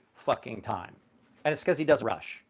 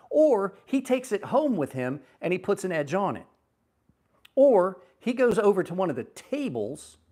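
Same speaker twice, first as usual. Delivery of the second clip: higher, heated retelling of telling off a buyer; fired-up lecture, pitched up; retold indignant rant; 5 semitones higher than usual. Telling the buyer to demand an edge, indignant and higher.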